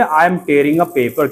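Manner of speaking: each word spaced out very slowly; slow dictation. Shown as a demonstration. Teacher dictating to students, very slow and clear. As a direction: model it slowly for the class to repeat. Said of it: "So बोलिए".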